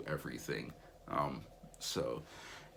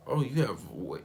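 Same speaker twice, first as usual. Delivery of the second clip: high, loud surprised exclamation; surprised host mom; 7 semitones higher, 8 dB louder than usual. Retold or imitated. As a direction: gasp it out in wonder. Host mom notices waves.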